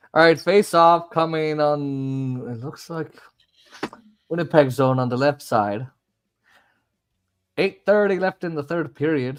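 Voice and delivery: announcer setting up the face-off; hockey commentary recapping the penalty; live hockey play-by-play. Acted. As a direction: punch the opening words, then settle into the call.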